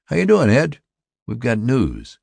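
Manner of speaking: high, loud, hearty hail; excited greeting. A narrator's reading. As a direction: greet a friend bursting with news. Excited neighbour greets him with news.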